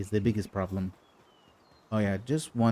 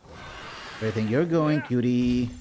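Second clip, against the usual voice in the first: teasing; slower than usual. Acted. Catching a Pal.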